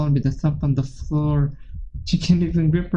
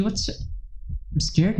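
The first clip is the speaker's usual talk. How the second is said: slow, breathless frightened whisper; terrified whisper; 4 semitones higher, 5 dB quieter, much slower than usual. Acted. Yuri whispers her fear to Midas on the phone, terrified whisper. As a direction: barely get the words out, terrified.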